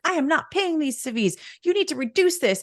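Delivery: high, forceful indignant refusal; retold angry yell at a clerk; imitated yelling. Customer yelling at the guy over prices, imitated angry yell. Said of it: "I was yelling at".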